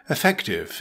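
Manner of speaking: "effective" with the stress on FEC; careful dictionary pronunciation of "effective", second syllable stressed. Shown as a demonstration. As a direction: say "effective" as i-FEK-tiv, stressing the middle syllable. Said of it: "with the stress on the second syllable".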